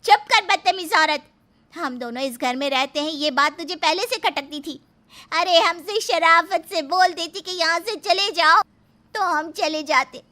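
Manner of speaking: high, indignant telling-off; angry scolding. Acted. Sister scolding the woman she blames, angry and indignant.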